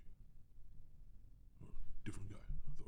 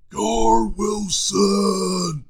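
huge slow drawn-out announcer call; trailer guy voice; 11 semitones higher, 12 dB louder, much slower than usual. Shown as a demonstration. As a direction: boom the name like a movie trailer. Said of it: "I can do it like this".

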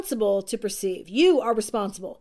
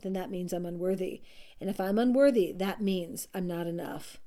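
sinking into despair; 5 semitones lower, 7 dB quieter than usual. Acted. Spiral of self-talk sinking.

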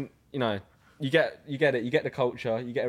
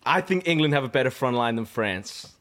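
light imitation of a friend's North American-style accent; half-teasing American accent impression; imitated American-like accent. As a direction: have a go at an American-sounding accent. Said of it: "I'll do it in your, like, you're not American".

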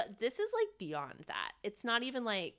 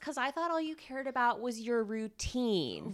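higher, louder indignant challenge; sarcastic scolding; 5 semitones higher, 5 dB louder than usual. Pretend. Addressing absent Silas about his routine, indignant sarcasm. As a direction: call him out, riled up.

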